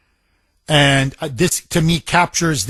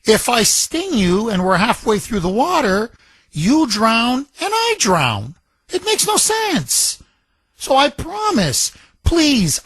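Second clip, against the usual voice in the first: high pleading scorpion, much higher than his own voice; 7 semitones higher than usual. Retold or imitated. Radio host voicing the scorpion to the frog, high and pleading. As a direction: play the scorpion, high and coaxing. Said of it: "The scorpion turns around and says".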